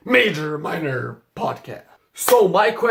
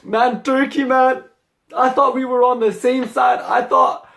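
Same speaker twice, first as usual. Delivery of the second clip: mock hurt; 5 semitones higher than usual. Real, not acted. Hurt appeal to Turkey Tom.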